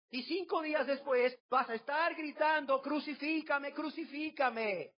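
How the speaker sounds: a sorrowful king speaks to the crowd, high and pained; Jesus pleading. Acted. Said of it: "y los volteaba a ver y decía".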